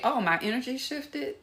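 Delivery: genuinely want to know; light open curious tone; open curiosity. Retold or imitated. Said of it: "they will say".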